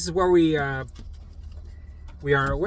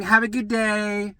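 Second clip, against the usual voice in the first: sarcastic have a good day; 4 semitones higher, slower than usual. Retold or imitated. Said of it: "I'm just saying that to piss her off".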